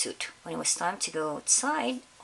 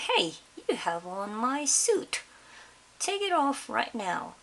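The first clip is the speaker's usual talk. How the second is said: slow, then higher order; indignant demand; 5 semitones higher than usual. Acted. Principal demanding the teacher give back his suit, indignant.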